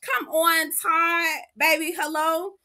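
high-pitched egging-on call; hyping up the husband, mock shouting; high cheering. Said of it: "I said".

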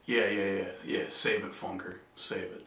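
mock dismissive to an imaginary friend. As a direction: wave him off, unimpressed. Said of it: "dismissing an imagined friend".

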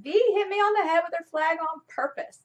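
put-on a touch of a tattling child; imitating her daughter. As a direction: mimic a hurt seven-year-old complaining. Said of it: "You know, she said".

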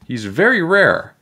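high, slow emphatic plea; pleading shout. A narrator's reading. Miss Krupp defending her cockroach, pleading shout. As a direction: stress each word in protest. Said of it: "shouted Miss Krupp".

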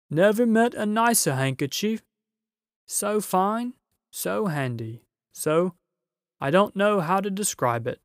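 delighted giant. A narrator's reading. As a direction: gush over the handkerchief. Giant voice in story.

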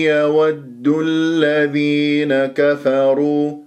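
long-held كفروا, kaf and fa kept thin; light kaf and fa. Shown as a demonstration. Teacher models the verse for students, light consonants. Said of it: "حتى أنت تجيب الكاف والفاء مرققة".

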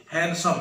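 हैंडसम with a silent d, han-some; correct pronunciation. Shown as a demonstration. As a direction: say हैंडसम dropping the d. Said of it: "डा sound इसकी नहीं है". (हैंडसम में ड खामोश, सही उच्चारण)

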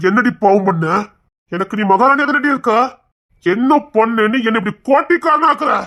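bitter tirade. Acted. Rejected man demanding of the girl what sin he committed, rising anger. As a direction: pour out the grievance, building to a demand.

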